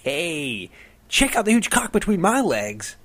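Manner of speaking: high, loud goofy yell; mock prankster shout. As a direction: shout it up like a showoff on a statue. Prankster yelling from chicken statue.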